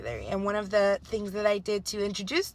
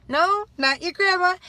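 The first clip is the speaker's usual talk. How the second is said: patient correction; 8 semitones higher, 8 dB louder than usual. Retold or imitated. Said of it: "And I said".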